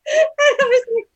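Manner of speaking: words swallowed in a high burst of laughter; high laughing gasp. Real, not acted. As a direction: break into laughter mid-line.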